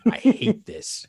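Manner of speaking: light imitation of a Russian accent; mock Russian accent, rising high at the end. Imitating Irina on the phone to Tony, Russian accent. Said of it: "something about a Russian accent".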